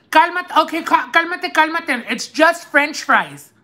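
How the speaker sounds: high mocking shush, slowing on french fries; mimicking the worker. Worker hushing the upset customer, high dismissive imitation. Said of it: "She told me like that".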